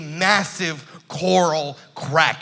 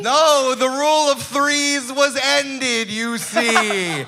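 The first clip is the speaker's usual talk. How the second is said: slow, grand monster host; lightly voiced sea monster; kraken voice; 7 semitones higher, slower than usual.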